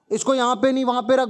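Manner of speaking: put-on a spoilt boy flaunting his power, mildly; showing off. Boy bossing the cook in front of friends, mildly haughty. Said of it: "राजम नखरे दिखाता है".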